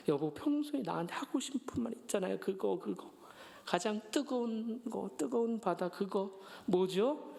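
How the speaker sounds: a hint of cute wheedling wife; mild coaxing nasal voice. Wife coaxing her husband for a confession, mildly cutesy. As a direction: lightly coax him, stretching the words. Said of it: "애교 섞인 콧소리로".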